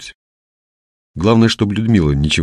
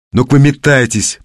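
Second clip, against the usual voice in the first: high, forceful dismissal; acted commanding outburst; barked order; 7 semitones higher, 4 dB louder than usual. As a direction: send the brawlers packing. Sapper orders the quarrelers out.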